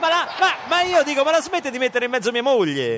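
high, loud indignant yelling; outraged shout. Acted. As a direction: shout it, offended and furious. Host outraged, shouting at Mourinho.

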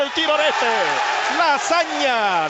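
goal shout. Real, not acted. Goal call on radio.

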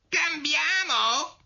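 very high, drawn-out squeal; incredulous rising squeak; outraged mouse cry. A narrator's reading. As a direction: shriek it slowly as an indignant mouse. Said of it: "gridò il topo, che stava tremando".

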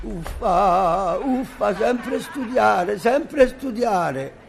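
whining. Acted. Boy complaining about homework.

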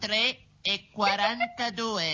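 slow, evenly measured announcement; drawn-out automated time-service delivery; speaking clock. Acted. Sister gives the speaking-clock time.

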